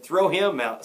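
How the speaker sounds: heckler's call. A narrator's reading. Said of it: "said another".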